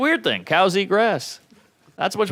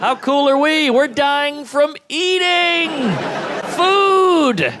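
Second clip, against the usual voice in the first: high, louder, building mock pride; mock proud; 11 semitones higher, 3 dB louder, much slower than usual. Comic mock-brags to the crowd about Americans dying from eating. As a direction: brag it like a triumph, peaking on food.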